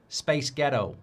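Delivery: trying on an American accent; attempted American accent. Shown as a demonstration. Streamer answering a viewer's accent request, attempted American accent. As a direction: have a go at sounding American, unconvincingly. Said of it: "Do your best American accent".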